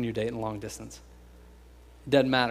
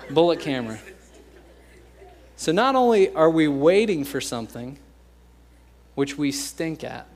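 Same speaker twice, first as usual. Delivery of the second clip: normal talking voice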